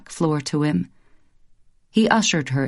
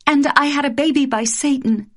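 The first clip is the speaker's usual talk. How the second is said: higher, playful scolding; higher mock outrage; mock accusation; 9 semitones higher than usual. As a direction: tease him with a fake charge. Wife teases husband.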